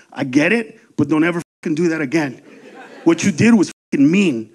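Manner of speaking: quiet, low stern telling-off; a hint of a stern warning; low stern scolding. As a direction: scold him low and firm, fast.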